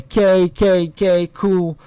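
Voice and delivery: mildly mock her automatic replies; Kayla. Mocking how Kayla replies online, light mock voice. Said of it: "like Kayla does online".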